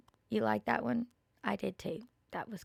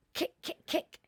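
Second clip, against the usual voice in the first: whispered kicks; 5 dB quieter than usual. A narrator's reading. Goat kicking in the story.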